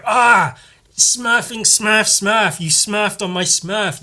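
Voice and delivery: high, loud mock outburst; hammed-up cartoon rage at a stubbed toe; angry Smurf. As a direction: yell it up high like a furious cartoon. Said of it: "one of them can get angry".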